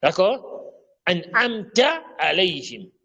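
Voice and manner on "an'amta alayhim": AN'AMTA slow, ending in a thin open TA; correct light TA. Shown as a demonstration. Teacher giving the correction, slow AN'AMTA with light ta. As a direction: stretch AN'AMTA and finish on a plain t. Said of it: "C'est an'amta".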